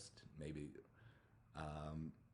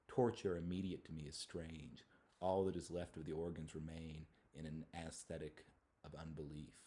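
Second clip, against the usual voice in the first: poem reading. Acted. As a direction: let the lines of the poem breathe. Reads a poem aloud.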